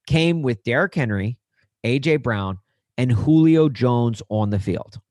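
measured stat reading with pauses; deliberate read. Real, not acted. Host reading a tweeted stat on a podcast, deliberately. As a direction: set out each piece for the listener to take in. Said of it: "I'm gonna read this slowly".

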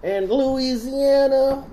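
high, slow, drawn-out proclamation; grand announcement. Pretend. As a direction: announce it like a showman.

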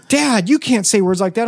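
mock scandalised protest. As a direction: protest like an embarrassed son, playfully acted. Sons' shocked protest acted out.

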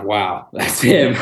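awed laugh. Retold or imitated. Awed first sight of buck.

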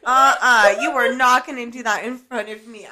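loud retold warning, opening hard; super angry mom. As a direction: firmly re-enact a mother putting her foot down. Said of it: "I got, like, super angry".

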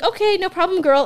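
high, loud sassy voice. Retold or imitated. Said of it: "she was like".

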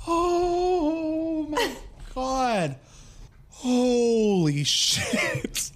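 high, breathless gasps through laughing; real helpless laughter; wheezing laughter. Real, not acted. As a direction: laugh until you can barely speak. Helpless laughter after joke.

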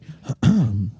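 low acted throat-clear. Mimes a hoarse morning-after voice.

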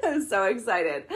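giggling through the words; laughing. Real, not acted. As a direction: laugh while you say it. Repeats it laughing.

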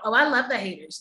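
light sassy flip, a hint of attitude. Quoting a sassy dismissal of haters, mildly sassy. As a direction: toss it off with mock sass. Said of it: "not in a sassy Black girl".

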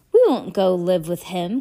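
loud, fierce refusal. Acted. Klaus refusing to live with Captain Sham, fierce and loud. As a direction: dig in and refuse hard. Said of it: "Klaus said fiercely".

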